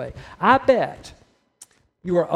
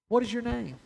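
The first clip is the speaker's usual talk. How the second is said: searching question, pitched up; repeated question, raised pitch; 3 semitones higher, 4 dB quieter than usual. Acted. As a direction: lift the pitch, then let it fall. Same question repeated after long pause.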